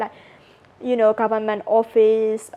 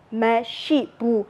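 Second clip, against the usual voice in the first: 1 slow demo; slower than usual. Shown as a demonstration. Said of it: "I don't have something".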